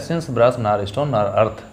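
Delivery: slow, deliberate reading of the title line; slow recited title. Shown as a demonstration. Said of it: "तो इसका another title है". (धीमे से शीर्षक की पंक्ति पढ़ना)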